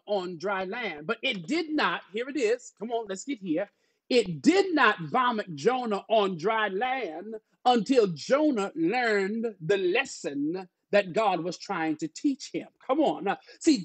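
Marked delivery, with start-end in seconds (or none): 4.1-12.7 slow, stressed sermon cadence; preaching. Real, not acted. Pastor telling church of Jonah's lesson, slow preaching. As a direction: preach it with drawn-out key words.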